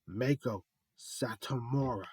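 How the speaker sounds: slow, drawn-out name call; ring announcer. Acted. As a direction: announce her like a ring entrance.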